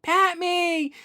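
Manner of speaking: high, eager dog voice; voicing the dog. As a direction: speak as the dog asking to be petted. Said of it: "she wants to be petted".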